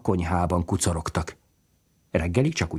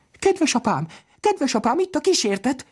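high panicked cry to father; terrified screaming. Acted. Children shrieking to father about the ghost, much higher. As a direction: scream for help, scared stiff.

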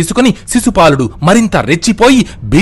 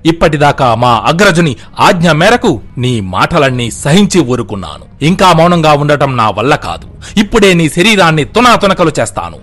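the threat rises in pitch toward its end; angry threat; 2 semitones higher than usual. Acted. Bhima threatens Shishupala before leaping, building anger. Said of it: "భీముడికి కోపం వచ్చి".

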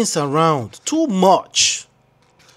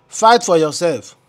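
quoting a singer; 3 dB louder than usual. Retold or imitated. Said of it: "Na Portable dey talk like that o".

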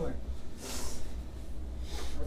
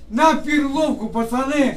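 raised, urgent repeat of a plea; insistent calling out; slower than usual. Real, not acted. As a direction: call out to the officers to be heard.

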